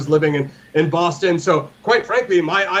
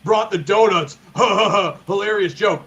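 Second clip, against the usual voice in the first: annoyed laugh. Retold or imitated. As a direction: sneer it with a fake ha ha ha. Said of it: "And they were like".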